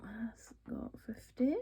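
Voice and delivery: slow whispered count; whispering. Real, not acted. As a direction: whisper it to yourself while counting. Counting cash under her breath.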